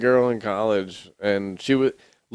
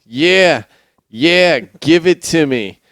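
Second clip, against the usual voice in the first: high, loud hammed-up moans; mock moaning; 7 semitones higher, 10 dB louder, slower than usual. Joking about a Boston chick, mock moaning.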